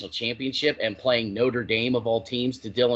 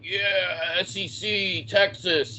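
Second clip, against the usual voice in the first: higher, cheering fan chant; mocking SEC fan; 6 semitones higher, much slower than usual. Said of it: "S E C fans would have been like".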